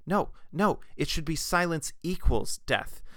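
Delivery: a hint of an excited interruption; mild blurted correction. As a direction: blurt it out, correcting the last idea. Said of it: "blurted out".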